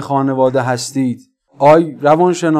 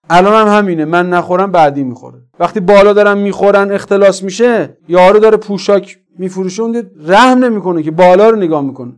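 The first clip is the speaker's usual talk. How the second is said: raised, pressing sermon voice; forceful preaching; 4 semitones higher, 5 dB louder than usual. Real, not acted. Preacher blaming corrupt leaders to his congregation, forceful preaching. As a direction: drive the point home to the congregation.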